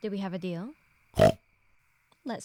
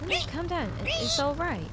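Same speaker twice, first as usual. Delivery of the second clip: raised, hurried-sounding reassurance; urgent calming; 5 semitones higher, 3 dB louder than usual. Acted. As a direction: try to settle a panicking animal. Trying to calm a frightened pig.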